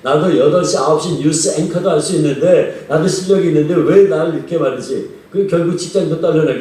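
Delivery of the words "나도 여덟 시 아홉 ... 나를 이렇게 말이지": mildly hammed-up grumbling protest; retold complaining to God. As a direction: retell an aggrieved man protesting to heaven. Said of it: "불평을 하는 거야". (하나님께 따지듯 불평하는 흉내)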